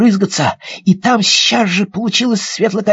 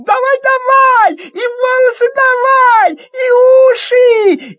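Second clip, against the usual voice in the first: high, loud shouts of hurry; eager urging; 5 dB louder, slower than usual. Acted. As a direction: egg him on, can't wait. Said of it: "Алёнка торопит".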